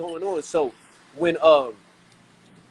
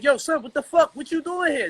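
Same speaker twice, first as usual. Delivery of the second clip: higher, mock-startled question; mock surprise; 7 semitones higher than usual. Friends shocked to find him living abroad, mock surprised. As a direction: act the friend's disbelief, pitched up. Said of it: "They like".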